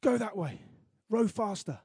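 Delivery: half-voiced megaphone shout; mock shouting. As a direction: mimic a bad manager yelling orders. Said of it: "with a megaphone shouting, ... shouting".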